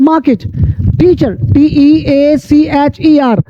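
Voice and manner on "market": "market" with no R, long AH; silent R. Shown as a demonstration. English teacher repeats the corrected word for learners, silent R. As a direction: say "market" as MAH-ket. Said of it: "आर silent हो जाएगी".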